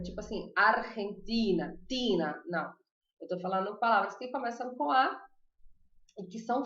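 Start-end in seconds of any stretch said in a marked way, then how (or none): 0.6-2.4 slow "Argentina", then the stressed "Tina" repeated alone. Shown as a demonstration. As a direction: draw out "Argentina" to show stress on "ti". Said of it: "a sílaba tônica é outra".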